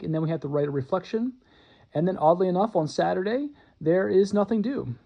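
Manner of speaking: breathless after a long read; out of breath. Real, not acted. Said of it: "I am just about out of breath".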